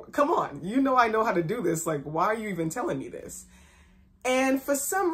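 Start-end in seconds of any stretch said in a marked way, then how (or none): 0.1-3.4 mild incredulous protest. Retold or imitated. Employee reacting to needless instructions from the boss, mildly incredulous. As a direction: protest lightly, as if it's obvious. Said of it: "almost like".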